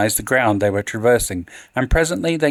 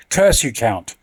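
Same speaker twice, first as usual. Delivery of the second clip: angry. Acted. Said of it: "he shrieked".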